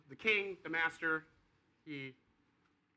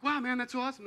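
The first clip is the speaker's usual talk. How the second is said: mock excitement; 9 semitones higher, 7 dB louder, faster than usual. Buddy reacts, retold.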